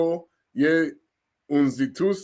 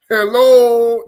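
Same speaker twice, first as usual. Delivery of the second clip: laughing; 8 semitones higher, 10 dB louder than usual. Real, not acted. Laughing amazement.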